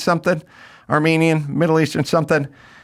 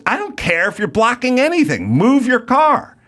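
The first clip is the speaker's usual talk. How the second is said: mock angry driver; 8 semitones higher than usual. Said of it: "he goes".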